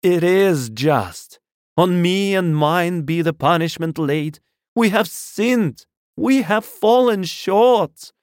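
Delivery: high, loud ranting sermon; unrestrained loud preaching. A narrator's reading. Curate raves to God while in hiding, loud fervent preaching. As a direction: cry repentance aloud, stretching the key words. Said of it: "nothing I could do would moderate his speech".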